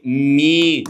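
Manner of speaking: "مي" as an isolated, held mee; syllable model. Shown as a demonstration. Teacher drills M endings, "مي" held as a clear mee. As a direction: sound out "مي" on its own, long i. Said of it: "هنا تبقى ايه؟".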